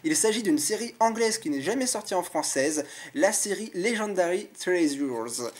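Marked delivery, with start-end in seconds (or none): 3.8-5.5 slow careful English for Legendary Treasures; English accent attempt. Shown as a demonstration. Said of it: "mon accent anglais est pas forcément terrible". (prononcé lentement avec un accent anglais)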